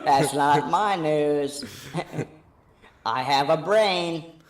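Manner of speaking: mock dismissive. Mock dismissal of news claims.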